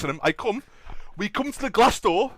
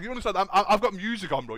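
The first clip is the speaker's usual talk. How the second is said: usual speaking voice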